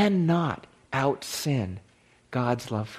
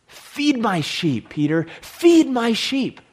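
slow, louder, insistent commission; Jesus' solemn charge; 5 semitones higher, 4 dB louder, slower than usual. Acted. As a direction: lean into each word like a command. Preacher voices Jesus' charge.

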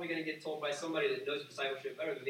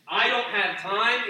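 slow mocking excuse; 5 semitones higher, 10 dB louder, slower than usual. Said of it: "if there's".

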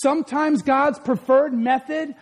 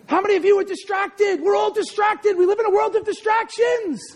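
high, insistent sermon call; full-force preaching; 7 semitones higher than usual. Real, not acted. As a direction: challenge the congregation with raised pitch.

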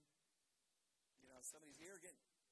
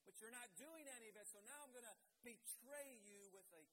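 louder, higher mock Judas confession; a hint of a greedy Judas, pushed higher; voicing Judas; 4 semitones higher, 4 dB louder than usual. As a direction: play the scheming betrayer, half-acted. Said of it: "He was pretending to love Jesus".

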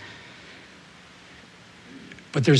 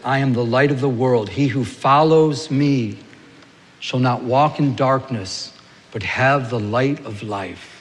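scripture reading; 3 semitones lower than usual. Acted. Scripture read slowly.

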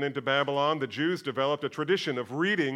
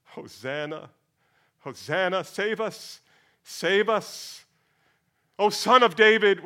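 rising higher and louder cry of the crowd; crowd acclaiming; 4 semitones higher, 4 dB louder, slower than usual. Acted. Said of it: "the crowds declared".

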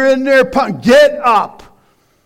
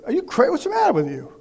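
startled wife's retort; 4 semitones higher, 8 dB quieter, much faster than usual. Retold or imitated. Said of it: "She's gonna go".

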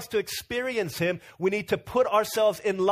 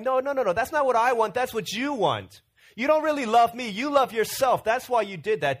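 imitating the wife's hurt accusation; understated angry wife pushing back; upset wife; 3 semitones higher than usual. Wife angrily accuses husband.

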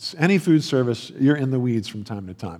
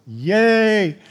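mock cheer; 7 semitones higher, 4 dB louder than usual. Mock cheer over closed restaurant.

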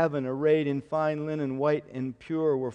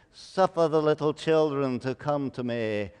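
lightly mocking old-stage Shakespearean delivery; a hint of a wimpy movie Jesus in stagey old English; 3 semitones lower than usual. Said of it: "he spoke in a Shakespearean accent".

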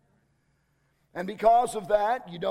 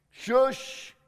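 a higher breathy shush with a laugh; 5 semitones higher than usual. Shown as a demonstration. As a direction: puff out shush like a winded player. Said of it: "is the sound I make".

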